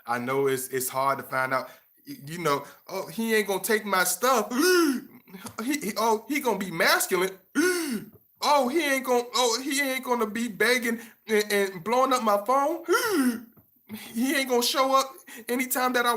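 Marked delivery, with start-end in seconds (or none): 2.9-4.5 high, mocking girly voice; mocking woman. 4.6-5.0 sharp high dramatic gasp; mock gasp. Mock woman gasping. 5.6-7.3 high, mocking girly voice; mocking woman. 7.5-8.0 sharp high dramatic gasp; mock gasp. Mock woman gasping. 8.4-12.8 high, mocking girly voice; mocking woman. 12.9-13.4 sharp high dramatic gasp; mock gasp. Mock woman gasping.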